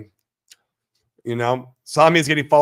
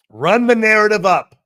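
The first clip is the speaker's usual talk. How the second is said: whisper; 6 semitones higher, 8 dB louder than usual. Acted. Hyping community, whispered aside.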